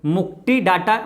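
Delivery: मुक्ति डाटा with hard retroflex T sounds; altered mnemonic pronunciation. Shown as a demonstration. Teacher demonstrates the memory trick, retroflex T in मुक्ति डाटा. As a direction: say मुक्ति as "muk-Ti", डाटा as "DaTa". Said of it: "मुक्ति पढ़ना".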